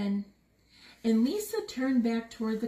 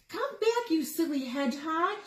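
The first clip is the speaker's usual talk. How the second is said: calling out; 4 semitones higher than usual. Acted. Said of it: "she called".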